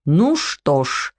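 slow, resigned doctor's sigh; doctor sighing slowly before the prescription; slow sighing resignation. A narrator's reading. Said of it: "вздохнул доктор Малинашевский".

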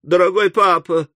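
lightly voiced pleading girl; exclaiming daughter. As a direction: appeal to father in a lifted voice. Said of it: "воскликнула Эмили".

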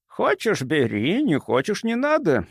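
gentle take-it-or-leave-it lilt; mild soft reply. A narrator's reading. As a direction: answer mildly, lifting the pitch. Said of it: "мягко отвечал доктор".

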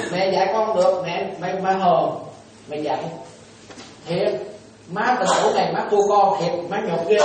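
put-on a mother sulking that her child won't listen. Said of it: "nhiều người mẹ nói như vậy đó".

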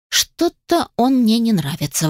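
plain reading voice

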